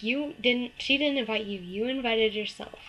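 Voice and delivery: loud, insistent mock accusation; imitated accusation. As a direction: throw the blame back, acting out her message. Retelling the other girl's accusation.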